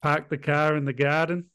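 half-hearted Boston accent; a reluctant, badly faked Boston accent. Shown as a demonstration. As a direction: lean lightly into a clichéd Boston accent. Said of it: "his Boston accent again".

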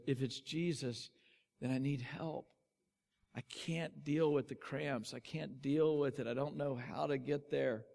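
soft, understated retold despair; broken down. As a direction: imitate him quietly giving in and pleading for help. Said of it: "then he just broke down in my arms".

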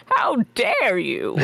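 slow, mock-indignant echo; mimicked villain voice. Player mimicking the game master's villain, mock indignant. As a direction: draw it out in lightly mocked indignation. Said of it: "Sorry, that voice".

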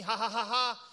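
a deliberately fake ha ha ha; demonstrating a laugh that isn't genuine; forced laugh. Shown as a demonstration. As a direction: laugh on purpose, with no real joke behind it. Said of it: "quando você começa a rir do nada assim".

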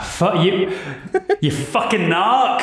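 lightly voiced old crone. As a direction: snap it out like a cranky hag. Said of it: "you hear the voice go".

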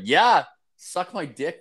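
high, drawn-out eager yes; mock delighted acceptance, slow and high. Birthday customer accepts the girl's offer, high eager mock voice. Retelling his eager reply.

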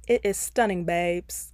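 a horrible attempt at a British accent. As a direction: camp British accent, badly done. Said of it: "I'm gonna try my best British accent".

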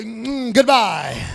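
a loud, dismissive goodbye. Retold or imitated. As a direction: wave the enemy off loudly. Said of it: "I would rather say".

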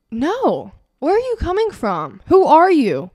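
high, loud, indignant yelling at the anxiety; mock angry confrontation. Talking back to her own anxiety, mock angry yell. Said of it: "Like, get mad at it".

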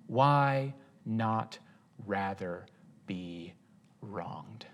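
hushed rhetorical whisper. Real, not acted. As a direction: whisper the question. Dramatic whispered question.

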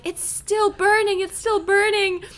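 high-pitched imitated exclamation; lightly hammed-up high, insistent cry; mock Hilda cry. Retelling the eternal flame scene, high mock exclamation.

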